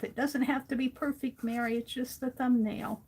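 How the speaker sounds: gentle pep talk to herself; reassuring self-talk. Retold or imitated. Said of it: "I keep telling myself".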